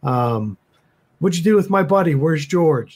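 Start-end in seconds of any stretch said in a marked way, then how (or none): 1.2-3.0 higher-pitched, held-back mock scream; urgent accusing questions, pitched up; acted screaming. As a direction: demand answers in a half-volume yell. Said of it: "screaming at it over and over".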